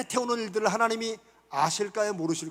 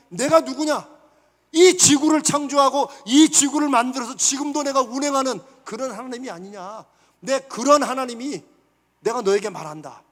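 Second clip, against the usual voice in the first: God's voice; 2 semitones higher, 6 dB louder than usual. Acted. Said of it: "다시 예레미야를 통해서 하나님이".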